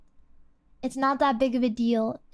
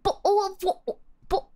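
higher, halting attempt at British; bad British accent; 4 semitones higher than usual. Shown as a demonstration. Streamer attempting bottle of water, poor British accent. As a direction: fumble through a British accent. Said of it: "my British is not very good".

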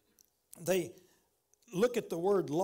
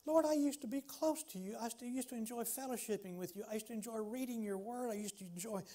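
lost believer's lament; 3 semitones higher than usual. Retold or imitated. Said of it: "I've had times in my life like that".

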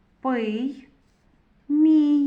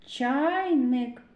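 "Чайник" drawn out, leading with Ч; first sound emphasized; 3 semitones higher than usual. Shown as a demonstration. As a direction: pick out the opening Ч in "Чайник". («Чайник» із виділеним звуком Ч)

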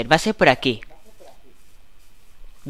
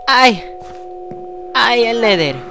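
surprised; 8 semitones higher, slower than usual. Real, not acted. Surprised in game.

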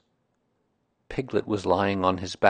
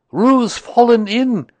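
high, slow alarmed cry; loud, pitched-up call for help; Rabbit; 13 semitones higher, 13 dB louder, slower than usual. A narrator's reading. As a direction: shout the alarm, drawing it out. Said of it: "cried Rabbit".

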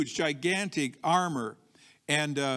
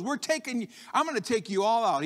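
raised-pitch cocky boast; threatening David; 6 semitones higher than usual. Acted. Preacher voicing David against the whole army, cocky threat. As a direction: toss out the threat with bravado. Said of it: "he's actually threatening the whole army".

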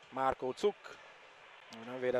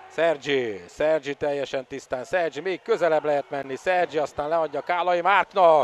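excited commentary; 3 semitones higher, 6 dB louder than usual. Real, not acted. Home attack and goal.

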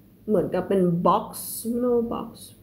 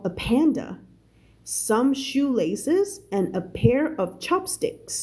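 slow, measured English reading; story read-aloud; much slower than usual. Shown as a demonstration. Teacher reading a novel to learners, slow narration. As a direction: read it slowly, word by word, for learners.

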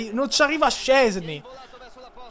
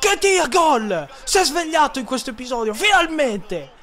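excited goal call; 4 semitones higher than usual. Real, not acted. Celebrating a goal.

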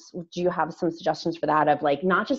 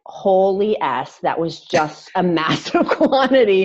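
slow, drawn-out amazement breaking into a laugh; amazed realization; slower than usual. Retold or imitated. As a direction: relive your disbelief, stretching each word. Quoting own shock at amount eaten.

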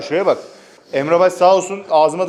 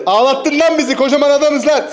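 raised, higher repeat; louder repeat; 8 semitones higher, 4 dB louder than usual. Real, not acted.

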